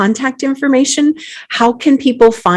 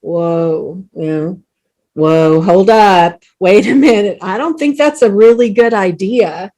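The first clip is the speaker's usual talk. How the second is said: alarmed whoa. Acted. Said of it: "be like".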